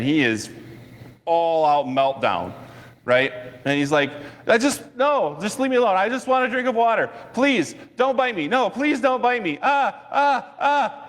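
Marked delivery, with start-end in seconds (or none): 4.5-11.0 high frantic pleading ending in screams; mock terrified begging and screams; imitating a screaming man. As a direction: plead in full meltdown, voice way up. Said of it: "And he's screaming".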